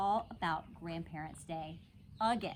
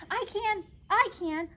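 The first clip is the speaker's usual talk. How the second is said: high, loud eager calling out; little girl hollering to the teacher, thrilled; excited holler; 12 semitones higher, 6 dB louder than usual. A narrator's reading. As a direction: shout it, bursting to volunteer. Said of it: "I hollered, very excited".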